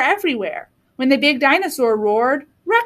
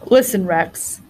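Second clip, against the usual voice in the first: big dinosaur; 5 semitones lower, slower than usual. A narrator's reading. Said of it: "he said".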